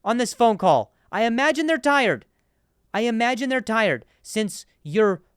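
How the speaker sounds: sarcastic retort. Retold or imitated. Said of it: "And I'm like".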